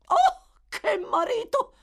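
wife mocking her husband; scornful exclamation. A narrator's reading. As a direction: scoff at him loudly. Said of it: "esclamò lei".

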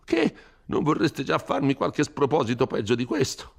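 a frightened priest scolding a rash youth; Don Abbondio, fretful. Acted.

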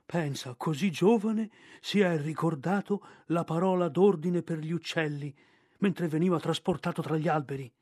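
put-on chuckling, satisfied old bear; pleased bear Balù. Balù praises Mowgli to Bagheera, chuckling and satisfied. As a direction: purr with pride at the cub.

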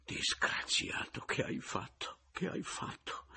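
slow, voiceless, despairing whisper; hushed dismay; groaning whisper. A narrator's reading. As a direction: moan it into your hands.

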